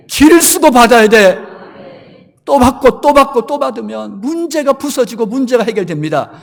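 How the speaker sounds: fiery preaching. Acted. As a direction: preach it to the congregation at full force. Preacher builds to full force.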